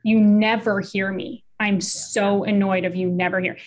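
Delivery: annoyed accusation, leaning on NEVER; mock-criticize with mild annoyance; critical tone. Shown as a demonstration. Partner accusing the other of not hearing, mildly annoyed. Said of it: "Both of us were pretty tony too".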